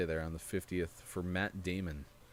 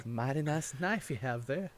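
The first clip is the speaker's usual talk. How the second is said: put-on pseudo Southern accent; 6 semitones higher than usual. Quoting Crocodile Dundee to his co-host, mock Southern accent. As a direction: lean into a hammed-up cowboy twang. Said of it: "a pseudo Southern accent".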